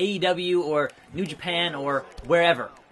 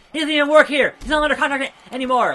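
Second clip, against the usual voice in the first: high, loud commentator scream; hammed-up Michael Cole yell; 9 semitones higher, 8 dB louder, faster than usual. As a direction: scream it like an outraged announcer. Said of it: "you have Cole screaming".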